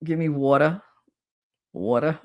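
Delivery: "water" as WAW-tuh; Jersey accent. Shown as a demonstration. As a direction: show off the Jersey vowel in "water". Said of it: "that's my accent".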